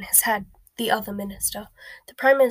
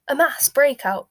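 loud, higher, slow, slightly hoarse echo; aghast, raised voice; hoarse repeat; 5 semitones higher, 8 dB louder than usual. A narrator's reading. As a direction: repeat it in drawn-out shock, a touch hoarse. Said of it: "repeated the Prime Minister hoarsely".

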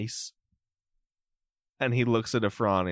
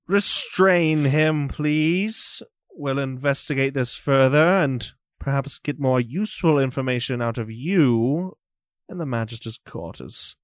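stern magistrate; 3 semitones higher than usual. Acted. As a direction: calmly command the guards. GM voices Magister Morden.

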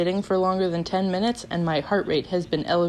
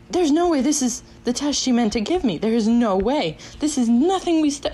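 emphatic, higher-pitched incredulity; retold disbelief; 5 semitones higher than usual. Student recalling seeing the wrong test, emphatic disbelief. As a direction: insist in disbelief.

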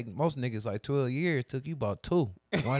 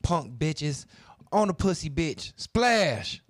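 drill rapper voice; 4 semitones higher, much slower than usual. Pretend. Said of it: "I'm a drill, drill podcaster".

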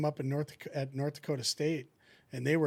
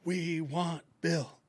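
mock taunting fans; 3 semitones higher, much slower than usual. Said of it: "So they're like".

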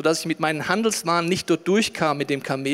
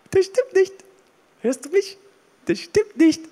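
building shout; 7 dB louder, slower than usual. Real, not acted. Preacher insists, building to shout.

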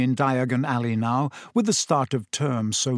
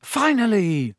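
exclaiming; 7 semitones higher, slower than usual. A narrator's reading. Friend greets Harry on finding him.

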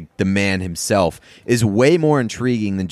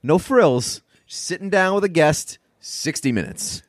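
mock talk show host pitch. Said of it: "the balls to be able to be like".

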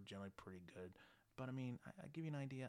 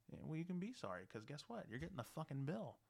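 heated scolding; 8 semitones higher, 4 dB louder than usual. Retold or imitated. Landlord scolding tenant over bill.

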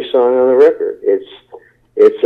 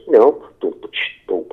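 soft breathy beatbox booms fading out; imitating a beatbox drum; beatbox demo; 5 dB quieter than usual. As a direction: show the beatbox sound quietly. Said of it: "That was a beatbox".

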